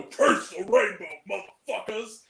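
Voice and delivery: imitated death metal vocal; death metal singer. Quoting the modulated Nostalgia Critic voice, death metal style. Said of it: "like a death metal singer go".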